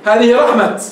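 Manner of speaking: final ة of رحمة sounded as t; pausal ta. Shown as a demonstration. Teacher repeats the allowed variant, pausal t. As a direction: close رحمة on a crisp t, no h. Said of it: "بالتاء وليس بالهاء".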